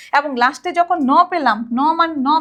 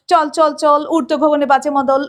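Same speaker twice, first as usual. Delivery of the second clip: march-song rhythm with punched syllables; quick stressed march; 3 dB louder than usual. Shown as a demonstration. Teacher showing students the quick punchy rhythm. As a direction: hit each beat hard, quick. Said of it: "অনেক এত দ্রুত উচ্চারিত হচ্ছে".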